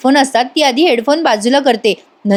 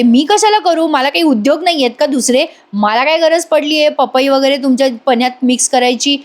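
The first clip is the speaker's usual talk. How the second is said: indignant denial; 3 semitones higher than usual. Retold or imitated. Accused woman answering the sisters, indignant denial. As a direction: push back as if wrongly accused.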